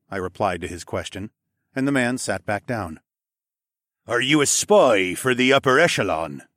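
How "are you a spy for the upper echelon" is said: suspicious lizard man. Acted. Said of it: "the yellow-faced man asked".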